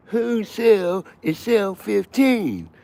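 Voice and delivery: high, loud barking guard; mock guard yell. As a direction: bellow like a prison guard. Guard yelling in retold prison story.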